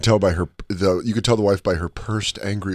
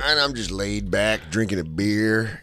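slow, lazy relaxed guy; slow lazy contented dad; laid-back drawl; 3 semitones lower, slower than usual. Retold or imitated. Acting laid-back man.

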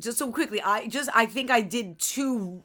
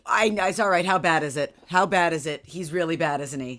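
louder, anxious rapid questions; nervous pushy questions; 5 dB louder than usual. Retold or imitated. Mom anxiously grilling her son's teacher, louder.

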